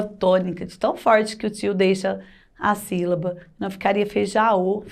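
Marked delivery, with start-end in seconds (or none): 4.0-4.8 "feijaô" with an oral a-o ending; missing tilde. Shown as a demonstration. Teacher showing an awkward word without tilde, oral ending. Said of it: "É até difícil de falar".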